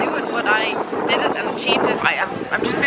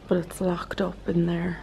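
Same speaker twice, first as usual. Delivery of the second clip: whispering; 2 semitones lower, 6 dB quieter than usual. Real, not acted. Whispered night house tour.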